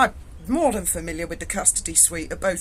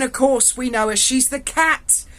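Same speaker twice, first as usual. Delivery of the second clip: amused copper; 5 semitones higher, 4 dB louder than usual. Retold or imitated. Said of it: "He went".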